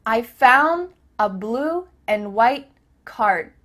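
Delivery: slow "found", "and", "Card" without released d; cut-off D. Shown as a demonstration. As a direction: stop short of d in "found". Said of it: "cut off the letter D".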